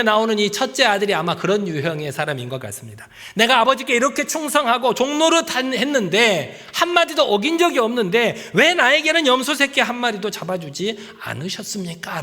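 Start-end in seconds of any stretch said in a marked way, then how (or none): 3.4-12.2 higher, louder indignant challenge; demanding complaint. Acted. Son confronting his father, indignant raised challenge. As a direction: press the father hard for an answer. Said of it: "아버지에게 지금 따져 묻고".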